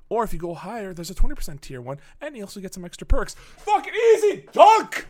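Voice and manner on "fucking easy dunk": high, loud victory shout; triumphant. Real, not acted. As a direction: celebrate nailing the ad plug. Triumph after ad plug.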